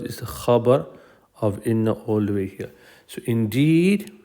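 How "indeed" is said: "indeed" stretched out and rising at the end; stress on "indeed". Shown as a demonstration. Teacher shows students the first emphasis, stressing "indeed". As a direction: draw out "indeed" as the emphatic word. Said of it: "one emphasis".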